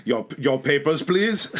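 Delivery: mock demand from a checkpoint officer; stern official. Acted official demanding papers.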